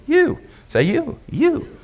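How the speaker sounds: You sung out high and light, syllable by itself; sounding out you. Shown as a demonstration. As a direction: model the sound You high for the crowd to repeat.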